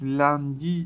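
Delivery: لندی with a front "a" as in "cat"; correct pronunciation. Shown as a demonstration. Teacher modelling Monday in French for pupils, correct pronunciation. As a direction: say لندی with an open front "a", not "on". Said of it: "لندی درسته".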